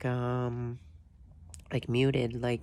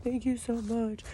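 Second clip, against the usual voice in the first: put-on light girl voice; 9 semitones higher than usual. Imitating grateful girl.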